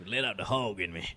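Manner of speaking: low, soft Southern redneck accent. Shown as a demonstration. Guest demonstrating his favorite accent for the host, Southern redneck. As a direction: talk like a redneck from the American South. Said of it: "probably a redneck or something".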